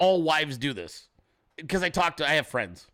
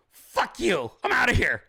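retold angry exit; 4 semitones higher than usual. Retold wife storming out.

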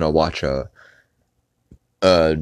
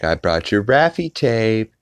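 higher singsong mock mother; Lois; 5 semitones higher than usual. Lois to Stewie while strapping him in, higher mock-motherly lilt. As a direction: lift it into a coaxing cartoon mum lilt. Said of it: "she's like".

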